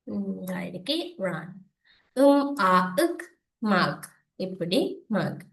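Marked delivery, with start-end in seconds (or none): 2.2-4.1 "இம், அ, இக்" apart, then "மக்"; phonics blending. Shown as a demonstration. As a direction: break "மக்" into its sounds. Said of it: "இதுல என்ன செய்யணும் பாருங்க".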